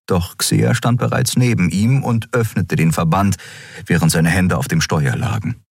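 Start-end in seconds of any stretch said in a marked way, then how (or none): none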